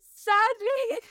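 laughing through a quote. Retold or imitated. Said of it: "something along the lines of".

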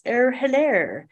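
jokey posh English hello; practicing a posh English accent. Retold or imitated. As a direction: mimic the Queen's posh English greeting. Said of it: "We would all joke around and practice".

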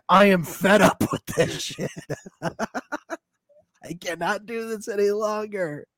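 hammed-up high melodrama over a text; playing up his fed-up rant; mock dramatic outburst. Husband reading his angry texts aloud, hammed-up high melodrama. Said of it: "he's always so talking so calm".

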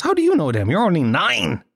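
lightly voiced uncle, pitch jumping up in surprise; an amused uncle quizzing a kid; mildly surprised uncle; uncle's voice. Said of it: "And he goes".

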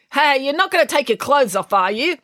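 high, alarmed question. A narrator's reading. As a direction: ask it in rising alarm. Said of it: "asked Finn in alarm".

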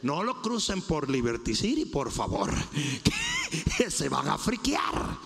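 low, relaxed, chuckling voice of God; preacher voicing God as a laid-back guide; God speaking casually. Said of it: "Él dijo".

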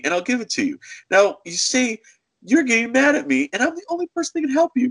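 high-pitched, emphatic mock lecture; bossy telling-off. Clerk offering a refund only through him, bossy. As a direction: lay down the deal, pitched well up.

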